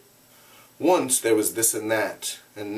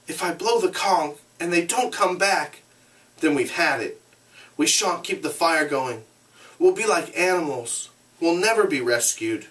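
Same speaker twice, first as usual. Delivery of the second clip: cautious; 6 semitones higher than usual. Acted. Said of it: "in a cautious voice".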